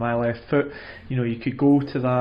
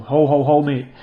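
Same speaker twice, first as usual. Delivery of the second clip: mock threat; 5 dB louder than usual. Threatening a client with hammer.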